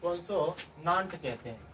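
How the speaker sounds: कॉन्सोनेंट said slowly in separated parts; slow dictation. Shown as a demonstration. Teacher repeating the English term, slow dictation. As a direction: take कॉन्सोनेंट slowly, piece by piece.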